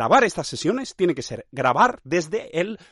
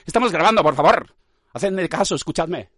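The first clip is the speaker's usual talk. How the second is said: tag; 3 dB louder than usual. Pretend. Pleads with listeners to pay attention.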